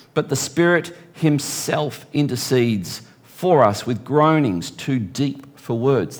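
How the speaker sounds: preacher reading Romans to the church; scripture reading. Acted. Reads scripture aloud.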